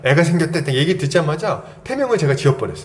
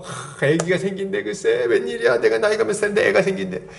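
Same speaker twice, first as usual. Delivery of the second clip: gossiping delight. Retold or imitated. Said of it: "이러면서 막 소문내고 좋아갖고".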